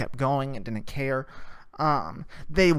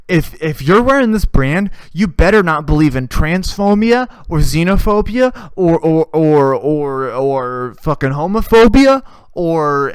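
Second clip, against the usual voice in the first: louder, hammed-up preachy lecture; mock preachy slogan; 6 dB louder than usual. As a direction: sermonize like a smug brand ad. Mocking the brand's preachy message.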